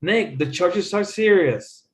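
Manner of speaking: teacher's model with serious as the focus, falling at the end; emphatic repeat stressing serious; stress on focus word. Shown as a demonstration. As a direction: put clear weight on serious. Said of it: "notice how the focus words".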